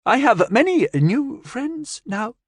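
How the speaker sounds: put-on high, slow alien child; high, slow, proud alien. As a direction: say it slowly and proudly like a gentle alien. Alien speaks happily.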